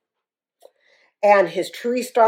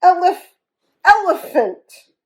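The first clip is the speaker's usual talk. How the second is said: high, loud tearful wail; 9 semitones higher, 4 dB louder than usual. Acted. Hippo wailing through tears to the bully. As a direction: wail and stumble over the word. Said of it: "wailed Fragility".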